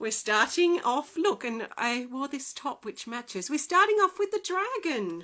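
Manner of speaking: on a bit of a high. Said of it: "I am just on a bit of a high right now".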